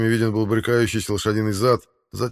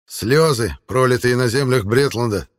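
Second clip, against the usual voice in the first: solemn; 4 semitones higher, 6 dB louder than usual. Acted. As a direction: speak it like an oath. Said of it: "торжественно проговорил Арнвид".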